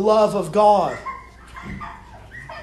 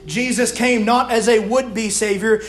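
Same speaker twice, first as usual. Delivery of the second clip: emphatic, higher-pitched sermon delivery; preaching; 4 semitones higher than usual. Real, not acted. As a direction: drive each point home to the congregation. Preaches building exhortation.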